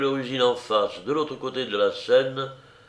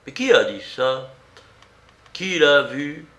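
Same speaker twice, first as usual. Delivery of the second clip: louder, sharp, higher-pitched questions; abrupt indignant challenge; 4 semitones higher, 6 dB louder than usual. A narrator's reading. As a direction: demand it abruptly, in protest. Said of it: "se retourna brusquement".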